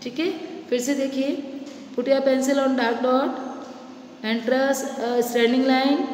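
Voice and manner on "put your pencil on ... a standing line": put-on each word drawn out for small children; step-by-step, very slowly; slow teacher instructions. Shown as a demonstration. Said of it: "slow instruction to children". (बहुत धीरे निर्देश)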